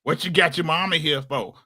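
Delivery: mocking the crazy mom. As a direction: sneer it like a bitter mother. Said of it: "his mama there talking crazy".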